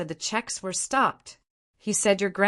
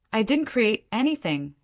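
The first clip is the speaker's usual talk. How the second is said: clear and cold; 4 semitones higher than usual. Acted. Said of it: "my voice suddenly clear and cold".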